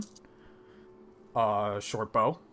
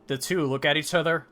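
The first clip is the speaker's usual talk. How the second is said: normal talking voice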